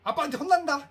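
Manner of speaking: loud, high scolding yell; a mother yelling a threat about dad at a running child; mother's shout. Retold or imitated. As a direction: bellow the warning. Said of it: "소리 팍 지르면서".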